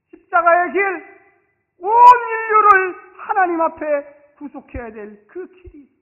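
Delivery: slow, loud, high shout; preaching at full force. Real, not acted. Preacher shouting the cross's purpose to the church. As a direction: proclaim it with all your force.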